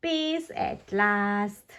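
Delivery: slow, relieved and content; relieved sigh. Acted. Daddy relieved after noisy day.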